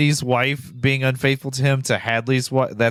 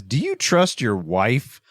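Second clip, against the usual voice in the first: slow calm question; slower than usual. Retold or imitated. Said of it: "the first thing he says is".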